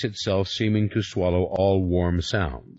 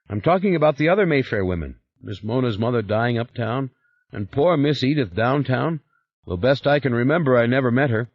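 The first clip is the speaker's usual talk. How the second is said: higher, fast, anxious servant voice; servant Henri, rattled; 4 semitones higher, faster than usual. Acted. Servant explaining the deaths to his boss, hurried and anxious. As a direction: babble it out, worried. Henri rambles about dead women.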